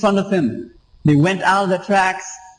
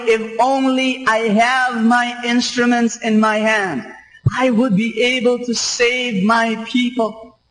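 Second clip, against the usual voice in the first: a touch higher, mild mock shout at usual level; God shouting; 4 semitones higher than usual. Preacher voicing God calling for his people, mild mock shout. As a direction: voice God's longing, lifted slightly. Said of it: "Your God is shouting".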